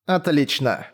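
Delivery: hissed through clenched teeth; through gritted teeth. Acted. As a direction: force it out with jaw clenched tight. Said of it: "прошипела я сквозь стиснутые зубы".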